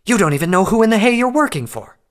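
loud, high, seething accusation; furious hiss. A narrator's reading. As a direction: spit the contempt at him. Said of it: "Nightcanter hissed".

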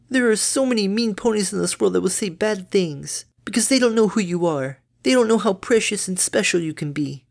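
high, bright-natured mother pony; doting mom, high and chirpy; cheery mother voice. Acted.

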